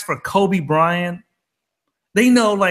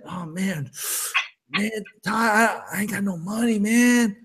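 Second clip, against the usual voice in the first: whiny broke friend; 6 dB quieter than usual. Retold or imitated. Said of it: "If you can sit there".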